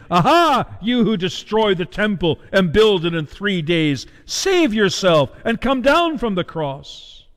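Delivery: drawn-out taunting jeer, slowing on save yourself; mocking. Passers-by wagging their heads and jeering at Jesus, mildly mocking. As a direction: jeer at him, stretching the last words. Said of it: "wagging their heads and saying".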